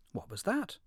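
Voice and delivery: high, curious crab. Acted. Crab asks in quoted speech.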